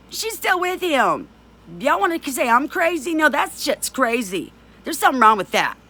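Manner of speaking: getting mad. Real, not acted. Ranting to viewers about the abuser's wife, real outrage. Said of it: "'cause I'm getting mad".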